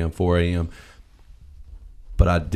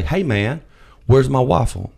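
higher, louder demand for the waffle; mock-annoyed customer, higher and louder; 6 semitones higher, 3 dB louder than usual. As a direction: call out to the cook, fed up.

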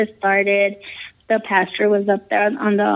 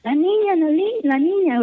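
mock scream; 7 semitones higher than usual. Churchgoer screaming about the little girl, mock scream. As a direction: imitate a screamed alarm without the volume. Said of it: "another person screams".

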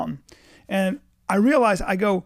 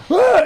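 short, loud high yelp; acted yell of alarm; 13 semitones higher, 9 dB louder than usual. Dad trying to cover daughter's eyes, acted alarmed yelp. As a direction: cry out in mock panic. Second yell in retold panic.

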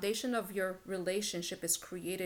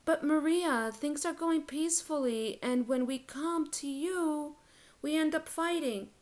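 higher-pitched imitation of a complaining client; lightly acted protest, pitched up; mock client complaint; 6 semitones higher than usual. Client complaining to the coach, mock protest.

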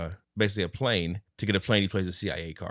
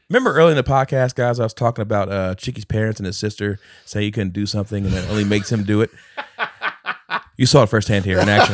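gloating announcement; 8 dB louder than usual. Real, not acted. Gloating to the listeners over winning the bet. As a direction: crow to the audience.

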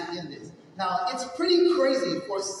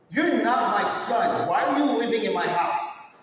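louder, slow, contemptuous shouting; abusive stepfather; 4 dB louder than usual. Acted. Stepfather berating his young son, contemptuous and loud. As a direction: spit the words at the child. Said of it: "I'm gonna get into character right now".

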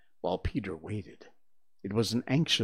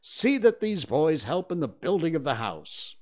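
raised, commanding order; boy playing captain giving orders; captainly voice; 6 semitones higher, 4 dB louder than usual. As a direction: instruct the crew with authority. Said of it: "in a most captainly voice".

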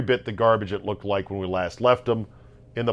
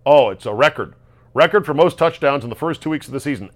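mocking pundit; 3 semitones higher, 6 dB louder, faster than usual. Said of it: "I don't want to hear".

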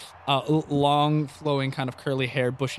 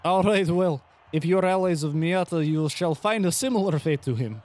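menacing champion; 4 semitones higher than usual. Acted. Champion keeps threatening.

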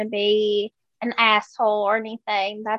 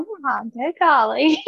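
Southern exclamation. Real, not acted. The speaker's own sweet Southern golly, admired by Josh. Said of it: "That right there"

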